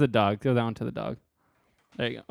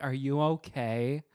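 mock concerned asker; slower than usual. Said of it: "and then people are like".

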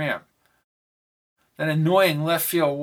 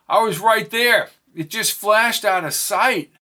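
alarmed; 6 semitones higher, 5 dB louder than usual. Acted.

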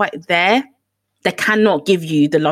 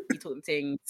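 much softer, almost under breath; soft repeat; 4 semitones lower, 15 dB quieter than usual. Real, not acted. To her co-host, softly under breath. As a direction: say it again softly.

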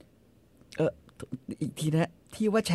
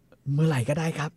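1 drawn-out answer. Retold or imitated. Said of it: "ไอ้หนุ่มรีบตอบว่า".

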